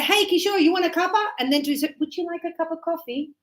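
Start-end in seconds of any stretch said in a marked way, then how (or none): 0.0-1.2 higher, chummy offer; casual to a friend. Retold or imitated. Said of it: "I would probably say". 2.0-3.3 quick, softer, polite offer; be courteous with someone you don't know; polite to a stranger. Retold or imitated. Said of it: "because I don't know the other person".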